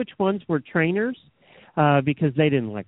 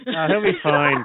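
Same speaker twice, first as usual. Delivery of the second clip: breezy reassurance; 3 dB louder than usual. Pretend. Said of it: "That's where you get that from".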